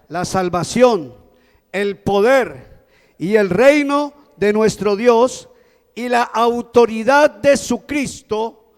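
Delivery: slow, measured scripture proclamation; great voice proclamation. Retold or imitated. Preacher quoting the great voice in heaven, slow proclamation. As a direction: proclaim each item slowly and solemnly. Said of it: "esa gran voz decía".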